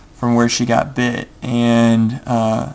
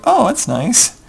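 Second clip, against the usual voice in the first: mock sarcasm; 11 semitones higher, slower than usual. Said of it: "And we're like".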